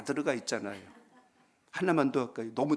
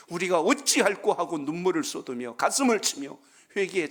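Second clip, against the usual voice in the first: 열띤 강조; 4 semitones higher, 5 dB louder than usual. Acted. 회개하는 백성을 떠올리며 강조.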